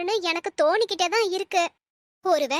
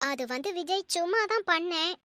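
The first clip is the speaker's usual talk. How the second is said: soft, halting start, unsure how to begin; mother hesitating on the phone to her son, softly halting; hesitant; 4 dB quieter than usual. Acted. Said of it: "ஏமா தயங்குறீங்க?".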